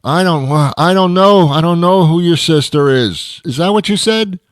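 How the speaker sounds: furious driver shouting at a drive-through speaker he can't understand; angry shouting. Acted. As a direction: yell back at the garbled speaker.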